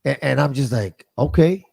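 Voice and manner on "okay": higher, eager yelps of recognition; retelling his own eager reply to the girls; getting excited. Retold or imitated. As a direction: jump in thrilled that they share a hometown. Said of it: "and I get excited".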